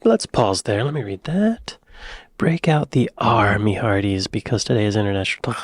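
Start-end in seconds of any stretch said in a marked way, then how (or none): 2.4-4.2 pirate accent. Shown as a demonstration. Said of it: "pirate speech".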